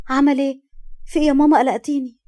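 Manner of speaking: mildly panicked, voice lifted; alarmed. Acted. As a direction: press anxiously for the news. Alarmed daughter questions her mother.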